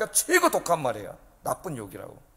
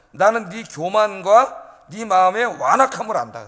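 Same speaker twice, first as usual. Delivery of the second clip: mock accusation; 4 dB louder, slower than usual. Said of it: "뭐라고 욕을 해요".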